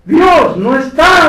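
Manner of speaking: slow, loud, high proclamation; preaching shout. Real, not acted. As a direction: hammer each word out slowly. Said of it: "preaching at full force".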